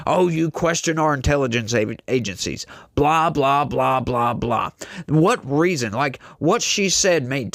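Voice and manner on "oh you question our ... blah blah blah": mocking senator. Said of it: "trying to berate her".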